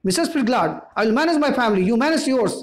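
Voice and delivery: rising, mock-sharp put-down; a hint of a curt mother. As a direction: tell the neighbour off sharply.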